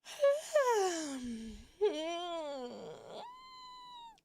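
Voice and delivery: long high yawning sigh; big yawn. Real, not acted. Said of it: "Do you guys yawn when I yawn".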